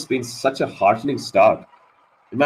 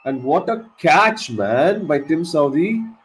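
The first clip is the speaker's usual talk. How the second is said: amazed praise; 4 semitones higher, slower than usual. Real, not acted. Praising the catch mid-shock.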